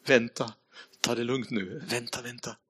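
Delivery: hushed, fading to almost nothing; whisper. Retold or imitated. The Holy Spirit whispering to the preacher, hushed and fading. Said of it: "hör den heliga ande viska".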